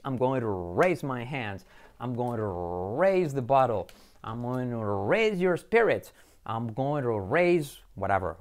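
slow phrases with a long R in "raise"; drawn-out raise. Shown as a demonstration. Teacher gives example sentences, drawn-out raise. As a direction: stretch the start of "raise".

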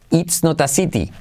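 It's not a city with hard t sounds; crisp t version. Shown as a demonstration. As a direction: say every t clearly. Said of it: "Mirad la diferencia".

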